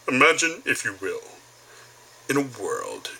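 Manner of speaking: a hint of an old-school TV host; Twilight Zone guy. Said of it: "the old school Twilight Zone guy".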